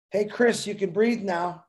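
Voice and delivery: fun phone tone. Pretend. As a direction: coo it like a cheerful ringtone. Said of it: "Make it a fun tone".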